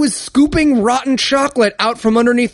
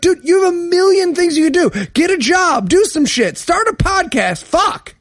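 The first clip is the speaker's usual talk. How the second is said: put-on much higher, fed-up rant at a whiny kid; exasperated retort; 9 semitones higher than usual. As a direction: throw up your hands, incredulous. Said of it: "And it's like".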